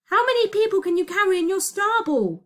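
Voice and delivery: high, loud, pressing question; urgent yell. A narrator's reading. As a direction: yell it urgently over the din. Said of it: "he yelled".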